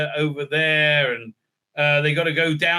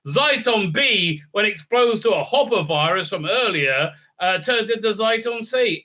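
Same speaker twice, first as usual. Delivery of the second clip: mock eager explainer; 5 semitones higher, 3 dB louder than usual. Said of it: "He said".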